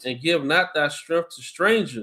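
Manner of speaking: slow, measured Bible reading voice; scripture reading. Acted. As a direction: read it out like a preacher at the lectern. Rereads Sirach.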